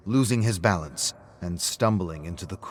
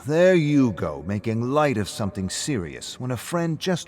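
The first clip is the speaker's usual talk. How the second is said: louder and higher, sarcastic retort; mock his phrase back at him; mocking throwback; 5 semitones higher, 5 dB louder than usual. Rick throws David's words back mockingly.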